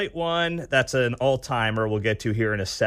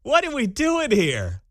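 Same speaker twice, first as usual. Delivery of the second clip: mock Latina accent; 14 semitones higher, slower than usual. Host parodying Harris's Latina clip, high shouted mock accent. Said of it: "the Latina accent".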